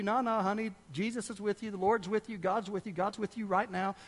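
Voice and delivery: soft, lightly voiced parental comfort; reassuring parent. Parent settles scared girl at bedtime, mild reassurance. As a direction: gently soothe a child, in light imitation. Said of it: "Her parents go in there".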